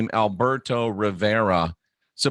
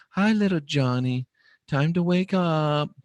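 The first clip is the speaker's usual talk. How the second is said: gentle wake-up voice; 3 semitones higher than usual. Retold or imitated. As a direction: coo a child awake, mildly mocking. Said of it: "She says".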